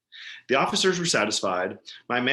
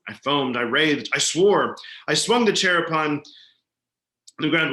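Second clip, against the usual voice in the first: frenzied, building; 3 semitones higher, 4 dB louder than usual. Acted.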